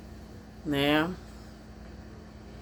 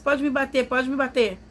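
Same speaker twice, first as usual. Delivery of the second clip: higher, mock pleading plea; pleading abuser; 5 semitones higher than usual. Husband kneeling to the sister, mock pleading. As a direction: play him begging to be hit, half-acted. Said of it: "ajoelhou, pegou a mão dela e falou assim".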